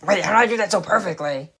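fast, nasal mocking impression; Firecracker's nasal voice. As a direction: pinch it through the nose, quick and whiny. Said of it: "Firecracker's stupidly nasally voice".

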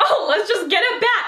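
retold suggestion tossed out with a laugh; joking. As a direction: say it lightly as a joke. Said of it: "like, jokingly".

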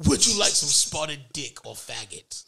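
British server offering two dishes in one run; British accent. Shown as a demonstration. Server lists two menu items to diner, British accent. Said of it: "so I can say it like that".

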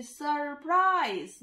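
সারপ্রাইজ drawn out as সার-প্রাইজ; syllable by syllable. Shown as a demonstration. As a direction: let both syllables of সারপ্রাইজ show. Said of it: "দুটো syllable". (সারপ্রাইজ দুই সিলেবলে টেনে বলা)

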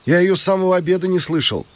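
calling out. A narrator's reading. Makar keeps calling from window.

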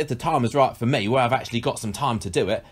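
lightly put-on accent; a hint of mock accent on a quote; Bradley Walsh. Host resuming an actor's quote after teasing, lightly imitated accent. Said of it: "He sounded exactly like that".

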